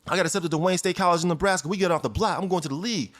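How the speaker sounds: high, eager news to a friend; teen telling his friend he got into college, excited. Retold or imitated. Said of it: "I said".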